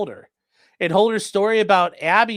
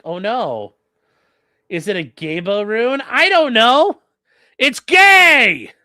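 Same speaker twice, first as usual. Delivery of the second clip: from plain to a loud, high mock yell; building to a yell; 4 semitones higher, 7 dB louder, slower than usual. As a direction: ramp up into a shouting taunt. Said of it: "I was like".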